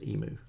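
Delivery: emu without the glide, EE-moo; baby-talk pronunciation. Shown as a demonstration. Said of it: "sounds like baby talk".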